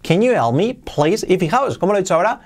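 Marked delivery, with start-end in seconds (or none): 0.0-1.3 "help" said almost as "elp"; "help" with its H swallowed, question rising on "please"; H nearly dropped. Shown as a demonstration. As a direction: link "Can you help me" with barely any H. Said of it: "casi la he omitido".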